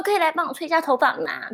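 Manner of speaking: put-on coaxing, babyish plea; cutesy whiny pleading. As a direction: sweet-talk him into it. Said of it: "我会用撒娇的方式欸".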